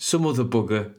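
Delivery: broad Birmingham pronunciation; Brummie accent. Shown as a demonstration. Showing off a very Brummie word, Brummie accent. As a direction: savour it in Brummie. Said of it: "that's such a Brummy word".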